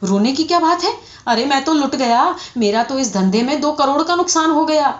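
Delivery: high, indignant acted lament; hammed-up wail of a ruined man. A narrator's reading. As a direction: throw it back in aggrieved despair. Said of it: "اس میں رونے کی کیا بات ہے".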